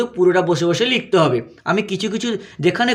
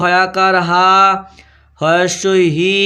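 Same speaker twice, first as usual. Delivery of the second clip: হয়াকার হা, হয়স্বই হি stretched out syllable by syllable; drawn-out spelling; much slower than usual. Shown as a demonstration. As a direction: hold the final vowels of হা and হি long, pausing between the two. Slow repeat for pupils to write. (হা আর হি টেনে টেনে, থেমে থেমে বলা)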